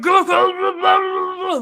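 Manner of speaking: high, loud mock yell of go go go; imitating a yell. Retelling the quarterback yelling at his coach, high mock shout. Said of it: "He's yelling at Cl".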